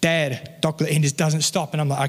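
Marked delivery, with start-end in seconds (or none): 0.0-0.9 lightly imitated little boy's plea; baby-talk pestering, chocolate said "doclet"; toddler son. Son who won't stop asking his dad, lightly imitated toddler. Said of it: "that's how he sounds".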